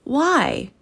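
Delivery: a sneering, high echo thrown back at him; scornful parroting of the nephew; mocking echo. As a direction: toss his own word back with scorn. Scrooge mockingly echoes nephew.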